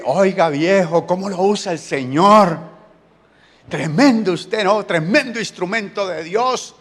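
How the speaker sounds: butter up the prophet with admiring exclamations; flattering king. Acted. King Balak buttering up the prophet, mildly hammed-up flattery.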